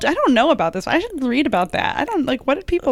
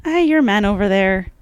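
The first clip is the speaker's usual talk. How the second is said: put-on Irish accent. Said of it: "Can you do one?".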